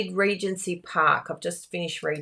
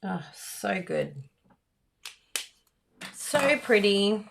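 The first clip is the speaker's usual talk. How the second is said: slow, croaky morning voice; croaky, dry-throated; slower than usual. Real, not acted. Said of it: "I've got a croaky voice".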